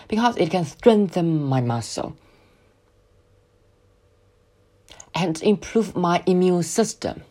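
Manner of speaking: slow, "strengthen" and "improve" drawn out; stretched verbs. Shown as a demonstration. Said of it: "动词要拉伸一下". (慢速，拉长动词"strengthen"和"improve")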